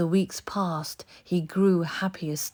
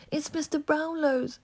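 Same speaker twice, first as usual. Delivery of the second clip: bitter; 11 semitones higher than usual. A narrator's reading. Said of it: "said Oliver bitterly".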